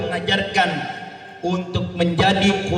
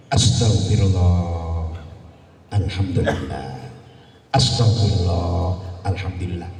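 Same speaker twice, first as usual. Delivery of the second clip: delman driver impression; 11 semitones lower than usual. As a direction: drone it like a weary coachman. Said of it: "nyupir delman ngomongnya begini". (tiruan kusir delman bergumam)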